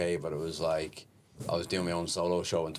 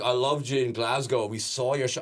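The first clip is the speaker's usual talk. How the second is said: put-on drunk fan; 5 semitones higher than usual. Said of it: "She's like".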